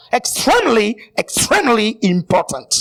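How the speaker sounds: mock English accent. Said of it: "j'aime mon accent".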